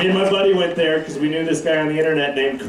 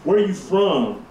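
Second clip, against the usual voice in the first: higher, condescending lawman; sergeant's drawl; 4 semitones higher, slower than usual. Retold or imitated. Casino sergeant questioning him about his ID, condescending. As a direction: talk down to him like a sheriff. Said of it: "The first thing he says".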